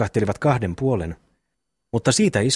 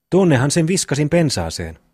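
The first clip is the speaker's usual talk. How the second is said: frightened answer; 5 semitones higher, 3 dB louder than usual. Acted. Boy answers under threat.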